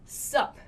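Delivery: "Sup" whispered short, what's swallowed; clipped sup. Shown as a demonstration. Teacher showing the most casual greeting. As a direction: breathe out a quick sup. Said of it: "is even more casual".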